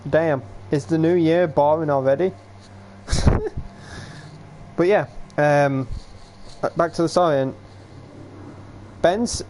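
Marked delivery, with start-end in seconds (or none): 3.1-3.7 laugh. Real, not acted. Amused at own yawning.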